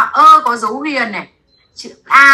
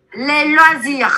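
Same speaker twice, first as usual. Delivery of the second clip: slow model phrase; 2 semitones higher, much slower than usual. Shown as a demonstration. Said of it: "Chúng ta nói về sở thích".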